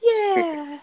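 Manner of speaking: high giggly laugh. Real, not acted. Laughing at the cat joke.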